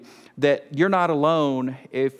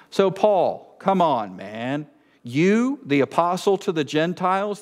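mock disbelief; 3 semitones higher than usual. Preacher teasing Paul about his failed travel plans, mock disbelief. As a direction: question him as if you can't believe it.

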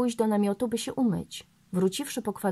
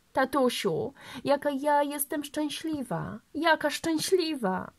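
put-on happy little girl; 6 semitones higher than usual. Little girl thanks her father.

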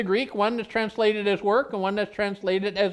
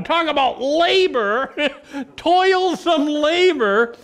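laughing; 5 semitones higher than usual. Real, not acted. Laughing at the road crews' work.

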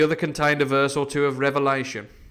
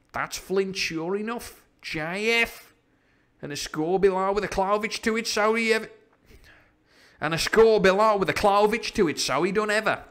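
excited pirate; 8 semitones higher than usual. Acted. Pirate inspecting Flint's signature on the chart, excited. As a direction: exclaim it as a pirate poring over treasure.

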